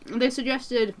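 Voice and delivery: talking while eating a flapjack; words around a bite of food; mouth full. Real, not acted. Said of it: "sorry, I'm eating a flapjack".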